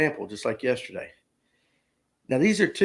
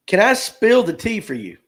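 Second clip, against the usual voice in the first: Gen Z voice; 6 semitones higher, 4 dB louder than usual. Acted. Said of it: "between two Gen Zers".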